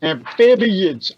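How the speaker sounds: slow, drawn-out interjection; deliberate correction. Acted. Brock correcting Damien's word, slow and deliberate. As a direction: spell it out slowly.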